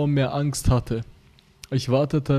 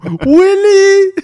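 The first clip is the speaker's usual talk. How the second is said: shouting a name; 13 dB louder than usual. Acted. Calling brother's name in story.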